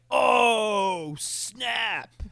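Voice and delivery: high, loud oh snap; a hyped audience member; excited oh snap. Retold or imitated. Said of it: "other people were like".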